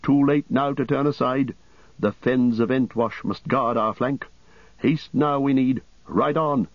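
hammed-up urgency, a lightly voiced warrior; urgent marshal. Eomer urging the host on.

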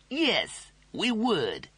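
high, polite cat drawl. Acted. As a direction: mind your manners, cool cat. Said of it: "said the cat politely".

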